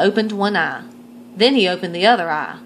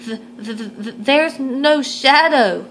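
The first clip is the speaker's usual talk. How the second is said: stammering, higher and slow; nervous squeak; 4 semitones higher than usual. Acted. Gregory announcing to the crowd, scared stammering squeak. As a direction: stutter it out in stage fright. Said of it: "he squeaked".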